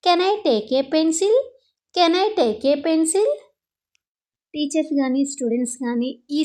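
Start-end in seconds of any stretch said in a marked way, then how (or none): 0.0-1.3 very slow, clear classroom English; slow model phrase. Shown as a demonstration. Teacher modelling the phrase for Telugu students, slow and clear. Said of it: "ఇలా అంటారు". 1.9-3.3 very slow, clear classroom English; slow model phrase. Shown as a demonstration. Teacher modelling the phrase for Telugu students, slow and clear. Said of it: "ఇలా అంటారు".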